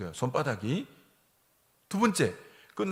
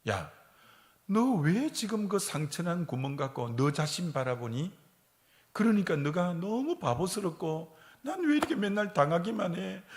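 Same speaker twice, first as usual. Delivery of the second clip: mild rebuke; 3 semitones higher than usual. Retold or imitated. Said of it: "하나님 이렇게 책망하는 거야".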